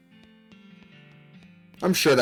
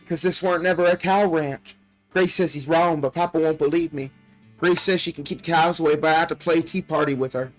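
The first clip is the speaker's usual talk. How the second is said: lightly voiced young girl, a bit higher; little girl voice; 3 semitones higher than usual. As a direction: read it like a frightened child's diary. Reads little girl's diary aloud.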